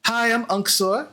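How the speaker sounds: high-pitched short greeting; female dragonborn. Acted. Blue dragonborn greets newcomers, in a high female voice. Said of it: "female dragonborn, she goes".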